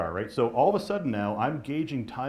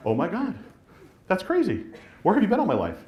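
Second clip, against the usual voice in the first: higher and louder, a hammed-up swoon over a dream house; mock gushing excitement; 7 semitones higher, 4 dB louder than usual. Buyer gushing over a magazine listing, hammed-up excitement. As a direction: play the starry-eyed buyer flipping the magazine.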